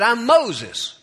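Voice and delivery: high, loud character reply; parrot answering. Acted. Parrot tells burglar its name, high and loud. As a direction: announce yourself high and proud as a parrot.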